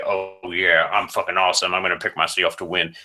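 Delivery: a light, mock Southern swagger; half-hearted Southern-accent boast. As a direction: brag it out in a faint Southern twang. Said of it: "I'm kinda Southern in that".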